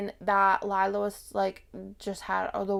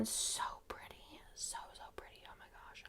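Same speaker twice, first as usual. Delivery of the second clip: whispering; 21 dB quieter than usual. Real, not acted. Gushing in a secret whisper.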